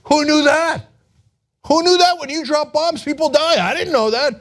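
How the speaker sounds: high, far-off dopey mock voice of a clueless president; mock Trump. Trump answering the Associated Press, hammed-up high clueless voice. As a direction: play him as a wide-eyed dunce. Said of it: "Associated Press is like".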